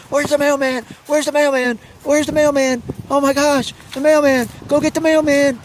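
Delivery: high, loud teasing to hype the dog; excited dog baiting. Acted.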